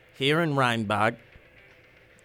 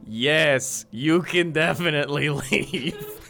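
sinister; slower than usual. Acted. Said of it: "that sounded very sinister".

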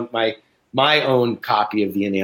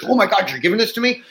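much higher and fast, disbelieving; imitating the seller's surprise; mock amazed; 9 semitones higher, faster than usual. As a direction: act floored by an unexpected gift. Seller stunned by a gift.

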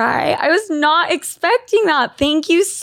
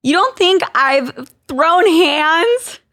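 put-on Valley Girl voice; 3 semitones higher, slower than usual. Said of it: "My Valley Girl voice".

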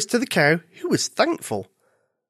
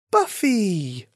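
higher-voiced, tender name-call; gentle, soft; 5 semitones higher than usual. A narrator's reading. Rabbit soothing her upset friend, gentle. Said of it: "Rella said softly".

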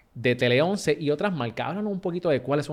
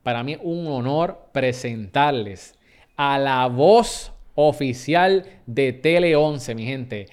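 announcer build-up, stretched words, louder on the name; guest introduction; 3 dB louder, slower than usual. Acted. Host presenting the Tele once voice to listeners, announcer build-up. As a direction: present the guest like a big reveal.

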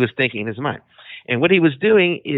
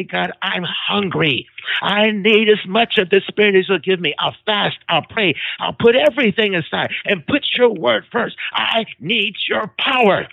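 earnest prayer; 5 semitones higher than usual. Retold or imitated.

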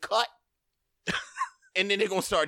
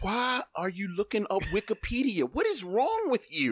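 mock exasperation; 6 semitones higher than usual. Real, not acted. Mock outrage at looking up Wikipedia.

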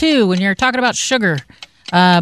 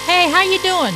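put-on Australian accent; 6 semitones higher than usual. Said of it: "Your Australian accent is excellent".

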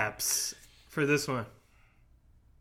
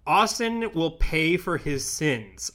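slow Undertaker line; much slower than usual. Retold or imitated. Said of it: "Undertaker said".

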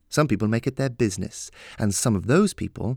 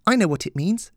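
put-on higher, light girlish voice; young girl voice; 11 semitones higher, 4 dB louder than usual. A narrator's reading. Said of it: "she said".

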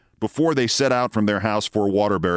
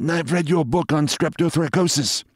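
higher-pitched voice of a distinguished colleague; visiting specialist; 7 semitones higher than usual. A narrator's reading. Specialist greets a colleague while shaking hands, in character voice. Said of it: "said Pritchard Mitford".

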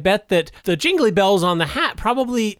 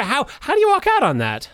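clown voice; 11 semitones higher than usual. Retold or imitated. Still in clown voice.

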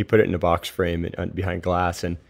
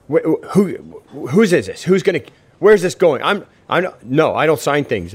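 much higher, stammering panicked protest, slowing at the end; freaked out; 8 semitones higher, 4 dB louder than usual. Retold or imitated. Mickey panicking when asked to sign the scorecard, high stammering. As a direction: sputter like he's cornered. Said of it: "he just totally freaked out here".

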